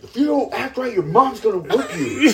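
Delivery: high, loud comic threat; mock scolding. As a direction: play an exasperated stepdad threatening kids. Disciplining them.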